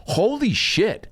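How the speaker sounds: high-pitched, drawn-out astonishment; retold stunned reaction. Telling friends of hearing the doctor's news, stunned.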